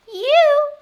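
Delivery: high, loud shout; witchy call across a field; loud hail. Acted. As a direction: holler at someone to get their attention. Witch hails the cow.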